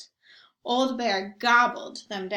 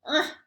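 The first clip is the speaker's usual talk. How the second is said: growled ugh; 4 semitones higher than usual. Acted. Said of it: "he growled".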